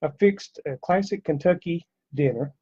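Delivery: out of breath from the stairs; winded, catching breath; breathless whisper. Real, not acted. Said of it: "Sorry, I'm out of breath from running downstairs".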